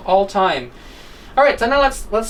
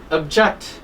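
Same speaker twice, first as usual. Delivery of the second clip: "object" stressed on JECT; stress on second syllable; 3 semitones lower than usual. Shown as a demonstration. Teacher reminds students of the verb's stress, "object" stressed on JECT. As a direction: say "object" as ob-JECT, weak first vowel. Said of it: "second syllable".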